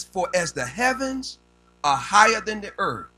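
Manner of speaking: measured, slow pulpit reading; scripture reading. Real, not acted. Preacher reading Isaiah to his congregation, slow declamation. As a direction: proclaim the verse in weighty phrases.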